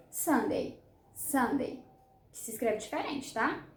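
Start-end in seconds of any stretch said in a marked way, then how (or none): 0.1-1.8 "Sunday" as SUN-day, like sundae; model pronunciation. Shown as a demonstration. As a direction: model "Sunday" in two clear syllables. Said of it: "igual aquela bebida deliciosa".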